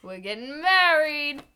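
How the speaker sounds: half-laughing fake sob; mock tearful joy. Friend hamming up Cher's engagement with fake tears. Gushing as Cher, crying sound.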